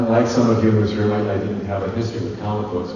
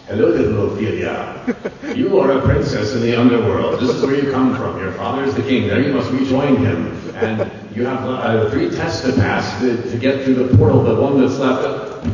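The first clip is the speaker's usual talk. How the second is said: lightly voiced Faun; 3 semitones higher, 4 dB louder than usual. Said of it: "the Faun saying".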